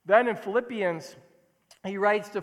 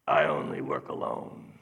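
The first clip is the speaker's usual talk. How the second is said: much lower, gravelly tough-guy growl; gravelly lone wolf hero. Retold or imitated. Preacher mocking the lone wolf hero, in a low gravelly growl. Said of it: "in a gravelly voice".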